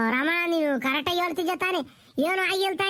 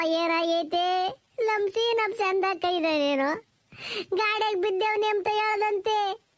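tearful pleading. Acted. Old woman begs Ramanna for news of Seenappa, tearful pleading. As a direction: beg for news, drawing words out tearfully. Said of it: "ಅದಕ್ಕೆ ನೀನು ಈಟೊಂದ್ ಅಳ್ತಿದೀಯ".

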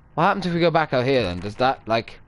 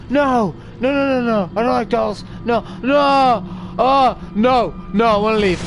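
raised, frightened no-no-no, pitched higher; panicked protest; 4 semitones higher than usual. Real, not acted. Gamer spooked by dolls, begging to leave, panicked. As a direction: plead to get out, voice climbing in fear.

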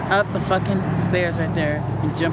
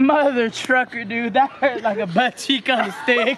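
laughing in pain; 6 semitones higher than usual. Real, not acted. In pain after jump, laughing.

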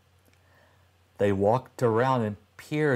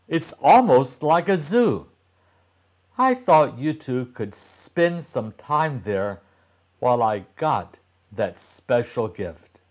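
enthusiastic mother, voice lifted and bright with news; a mom selling the treat to her kids; 2 semitones higher than usual. Acted. Mom announces the pet shop.

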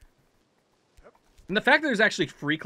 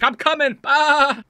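raised, loud goat bleat; bleating goat husband; 6 semitones higher, 5 dB louder, slower than usual. Acted. Climber answers his goat wife, raised bleating. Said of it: "My mountain goat wife is up there".

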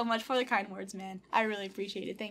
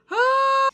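sudden high, loud squeal; sharp burst breaking the whispering; overwhelmed cry out; 14 semitones higher, 14 dB louder than usual. Real, not acted. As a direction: let out one sustained emotional yelp. Overwhelmed, trying not to cry.

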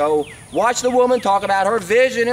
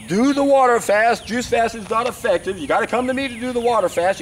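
higher-pitched mimicry of a pushy seller; mock pushy salesman; 4 semitones higher than usual. Mocking a fasting coach selling supervised fasts, mock pushy. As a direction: push the pitch with mocking insistence.

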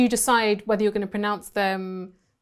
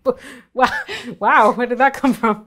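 louder, higher startled double take; taken aback; 4 semitones higher, 6 dB louder than usual. Retold or imitated. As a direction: act out being thrown by an unexpected word. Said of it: "I was like".

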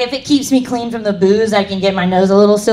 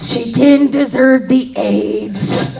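mock retraction; 3 semitones higher, much slower than usual. Repeats the retraction for laughs.

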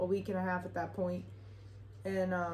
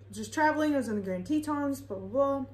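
nervous answer; 5 semitones higher than usual. Retold or imitated. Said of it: "I was shaky".

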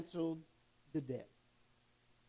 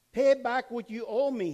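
louder, higher harsh demand for the debt; 6 semitones higher, 7 dB louder than usual. Acted. Servant choking his fellow servant demands his money, loud and angry. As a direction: bark it out as the unforgiving servant. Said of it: "he demanded".

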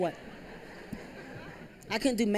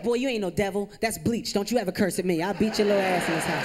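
scolding mom; 4 dB louder than usual. Retold or imitated. Scolding mom, getting louder.

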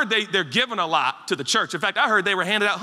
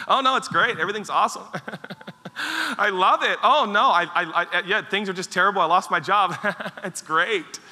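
mock-bright, forced brave face with nervous laughs; fake cheerful pretending; 3 semitones higher than usual. Pastor mimicking a churchgoer pretending all is fine, mock cheerful. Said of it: "put on a smile and just pretend".

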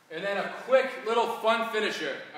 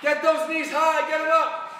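coach shouting; 4 semitones higher, slower than usual. Real, not acted. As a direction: yell the moves to drive them on. Coach yelling over a workout.

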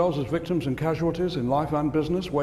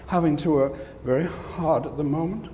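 mocking weary whine; slower than usual. Shown as a demonstration. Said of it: "use that kind of language?".

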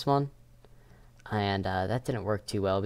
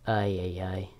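whispering; 2 semitones lower than usual. Pretend. Sneaky whisper while hiding.

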